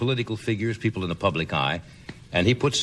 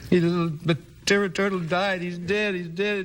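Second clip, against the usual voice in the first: put-on crying child; 10 semitones higher, slower than usual. Little boy wailing to his father about the turtle.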